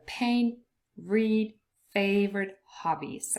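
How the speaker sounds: "paint", "read", "favorite hobbies" set apart by pauses; stressed syllables isolated. Shown as a demonstration. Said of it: "those syllables are stressed".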